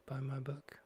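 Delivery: whispered plug. Pretend. Host whispering a plug for the book to viewers.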